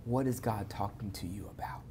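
whispered, close and intimate; hushed question. Real, not acted. One believer asking another, in a whisper. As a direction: lean in and breathe the question softly. Pastor presses on time with God.

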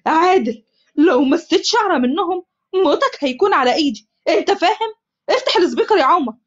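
غاضب ومهدد; angry threat. Acted. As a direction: warn him with barely held rage. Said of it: "عمر بغضب".

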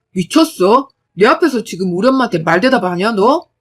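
loud, harsh rebuke; husband scolding wife in front of his mother; angry husband. Acted. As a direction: bite back at her for talking back.

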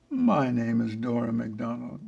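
lightly voiced honeyed secretary; a mild syrupy-polite greeting; saccharine sweet caller. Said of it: "dripping sweet with saccharin honey".

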